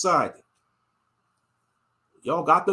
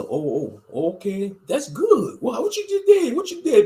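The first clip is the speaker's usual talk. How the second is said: high mocking slave master, pitched way up; a put-on plantation master voice; 6 semitones higher than usual. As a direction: sneer it out like the old master. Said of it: "The slave master".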